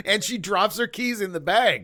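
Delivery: giggling retelling; laughing. Real, not acted. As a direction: laugh as you tell it. Laughing at the scene.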